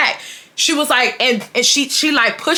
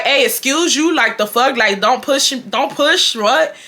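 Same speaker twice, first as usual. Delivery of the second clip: retold indignation, pitched up; indignant telling-off; 3 semitones higher than usual. July telling the boy not to push, indignant. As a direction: imitate a friend challenging someone who shoved her.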